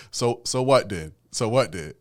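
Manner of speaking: mock Jamaican London accent, loud; imitating a London Jamaican roadman. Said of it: "he did the Jamaican London accent".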